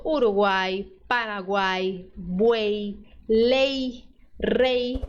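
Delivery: each word ends in a clear ee glide; y at syllable end as ee; final y as ee. Shown as a demonstration. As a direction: end Uruguai, buey, lei and rei on an ee sound. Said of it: "Aí ele tem som de I".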